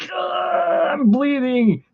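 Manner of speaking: be the cat, hammed-up and whiny; voicing the cat. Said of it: "he'd be like going".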